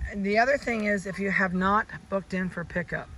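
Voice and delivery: ordinary talk, nothing marked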